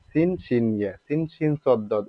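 সিন, শিন, সদ, দদ rattled off with short vowels; unstretched সিন, শিন, সদ, দদ; old short reading. Shown as a demonstration. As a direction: recite সিন, শিন as a list without holding the vowels. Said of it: "এভাবে পড়তাম না?".

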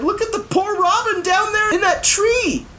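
put-on high, urgent boy's voice; a high, slowed urgent cry; urgent alarm. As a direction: plead urgently about the trapped robin. Bartholomew urgently describes the robin.

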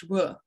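"W" as English "wuh"; English W sound. Shown as a demonstration. Showing learners the English sound to avoid, "W" as a lip-rounded wuh. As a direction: round the lips for "W", no teeth on lip. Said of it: "not pronounced like the English W".

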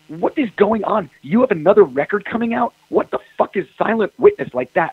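A&R guy yelling on the phone, mildly mocked; retold yell. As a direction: impersonate the boss chewing him out, lightly. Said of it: "and he's yelling at me".

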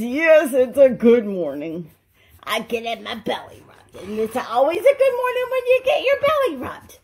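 dog voice. Acted. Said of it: "Tonka says".

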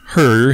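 "her" set apart with emphasis; pointed stress on HER. A narrator's reading. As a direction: lean knowingly on the word "her". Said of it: "to further emphasize the implication".

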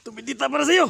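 high, loud ritual cry; shouted incantation. Acted. Exorcist shouting a spell at the aswang. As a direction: hurl the spell at it.

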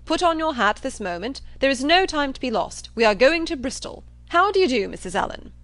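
loud, high, bossy hurry; blustering John Thorpe. Acted. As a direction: burst in giving orders. John Thorpe bursts in, giving orders.

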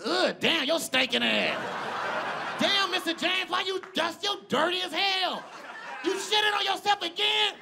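high-pitched, disgusted scolding; hammed-up nasty nurse yell; mock mean caretaker. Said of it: "Mean as hell to your grandfather".

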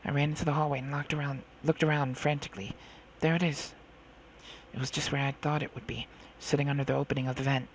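measured first-person storytelling; story narration. A narrator's reading. Girl recalls slipping back into the ship, measured narration. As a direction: narrate a tense childhood memory evenly.

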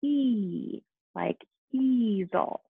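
E said long like in easel, slowly; long e sound. Shown as a demonstration. Teacher modeling long E for students. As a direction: stretch the E in easel. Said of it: "it's going to say".

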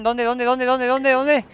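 rising urgent where, where, where; frantic searching, voice climbing; anxious repeated calling. Real, not acted. Gamer under attack calls out frantically, rising urgency.

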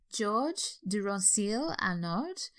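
slow, careful, self-conscious French accent on the name; amateur French accent on a surgeon's name. Shown as a demonstration. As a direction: try the name as a Frenchman would, slowly. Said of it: "that's my best French accent".

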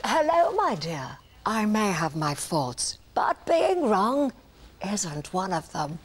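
lightly voiced Thatcher, slow and grand; stately, drawn-out prime minister voice; Margaret Thatcher impression. Host asks for her Thatcher, slow grand impression. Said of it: "your impression of Margaret Thatcher".

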